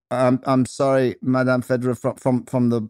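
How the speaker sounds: hesitant, stammered query, slightly high; puzzled apology. Acted. Baffled student asking his movement teacher, hesitant and apologetic. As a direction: stumble politely over the words.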